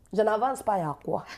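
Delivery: lightly put-on Ivorian woman's accent; mild defiance in an Ivorian accent; feisty Ivorian accent. Ivorian woman answers an annoyed Parisian, feisty Ivorian accent. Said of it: "elles sont très exubérantes".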